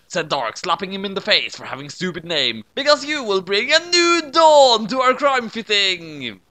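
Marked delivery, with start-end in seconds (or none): 2.8-6.4 a touch of grand pronouncement. A narrator's reading. Dark names the clone.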